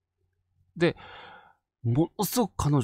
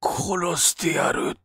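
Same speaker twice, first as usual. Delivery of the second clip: slow, unvoiced whisper of a threat; menacing whisper; 5 semitones higher, much slower than usual. Possessed woman threatening the old woman, slow whisper. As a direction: breathe the words out slowly like a curse. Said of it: "次に出た言葉が、".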